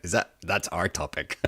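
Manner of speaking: chuckling through the words; laughing at own pun. Real, not acted. Host laughing at his utopia-topic pun, chuckling. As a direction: let a laugh carry the line.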